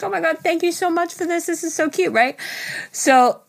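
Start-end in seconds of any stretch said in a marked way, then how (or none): 0.0-2.1 retold gushing thanks. Retells gushing thanks to partner.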